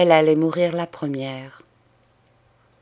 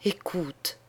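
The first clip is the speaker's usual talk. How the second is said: much softer, half-breathed écoute; hushed; 8 dB quieter than usual. Acted. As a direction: drop the voice to a murmur. Dying sister urges her sister. (écoute murmuré tout bas)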